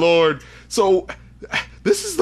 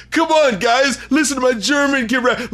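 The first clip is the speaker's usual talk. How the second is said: higher-pitched mock eager pitch; eager wannabe rapper; 5 semitones higher than usual. Wannabe rapper pitching to eighties guys, mock eager. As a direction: lightly imitate someone trying to fit in. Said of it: "He's trying to kick it with the eighties guys".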